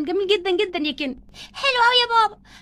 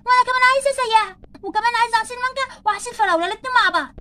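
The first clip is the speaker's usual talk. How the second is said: put-on whiny kids' voice; 4 semitones higher than usual. Kids demanding food from dad.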